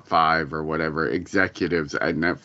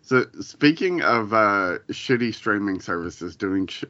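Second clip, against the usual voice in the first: talking through hiccups; hiccupy speech. Real, not acted. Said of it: "I have the hiccups for some reason".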